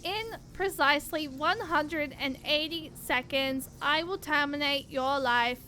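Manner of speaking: even, mechanical robot voice. Acted. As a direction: speak like a cold machine. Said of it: "constantly doing the robot voice".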